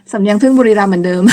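laughing. Real, not acted. Teacher teases own Buriram accent, laughing. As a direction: joke and break into a laugh.

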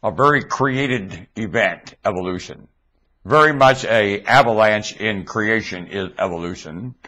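ventriloquist, lips not moving; talking with mouth closed. Shown as a demonstration. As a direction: speak through still lips. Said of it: "let's see if I can talk without moving my lips".

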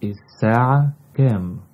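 الساعة كام said quickly at normal pitch. Shown as a demonstration. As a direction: rattle off الساعة كام naturally. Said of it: "What is the time?".

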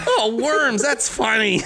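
high amused words through laughter; laughing. Retold or imitated. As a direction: chuckle it out high. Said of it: "He's like".

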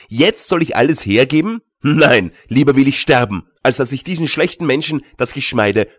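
loud, heated refusal rising to a cry; he would rather die, say it so; defiant outcry. Acted. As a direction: goldsmith shouts his refusal to his companion.

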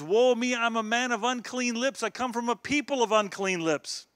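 high-pitched dramatic lament; acted prophetic dismay; woeful cry. Quotes Isaiah's cry of woe.

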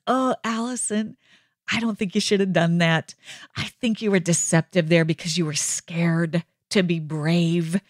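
tender, measured reproof without shaming; gentle correction. Acted. God kindly correcting Allison over a mistake, gentle correction. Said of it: "Do you hear the tone in my voice?".

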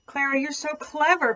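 high, amazed praise; shocked cry. Acted. Katisha amazed at Clara, a high astonished cry. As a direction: marvel at her friend. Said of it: "cried the shocked Katisha".

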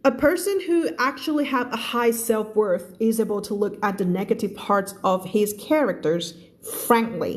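very slow, careful reading of English text. Shown as a demonstration. Teacher reading a passage slowly to her students. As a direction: read each word out slowly for the class.

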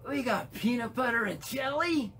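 high, excited gasp of wonder; amazed reveal. Pretend. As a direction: exclaim it like a magic surprise.

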